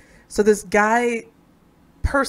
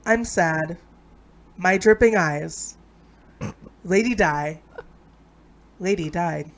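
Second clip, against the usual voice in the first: halting poem recital. Acted. Friend reading an amateur Princess Diana poem, halting recital. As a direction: recite in short lines with solemn pauses. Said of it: "okay, read the poem".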